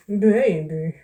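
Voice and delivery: put-on drawn-out New York "Baby"; New York accent. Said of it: "I know somebody who talked like that".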